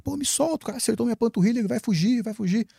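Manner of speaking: high, urgent retold plea to be let go; straining against the hands holding him back; frantic pleading. To friends holding him back, high frantic pleading. Held back, begging to chase shooter.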